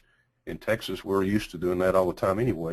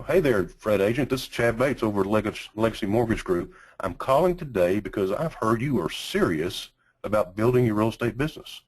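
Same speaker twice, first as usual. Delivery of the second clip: script read; 2 semitones higher than usual. Shown as a demonstration. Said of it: "here's the script that we use".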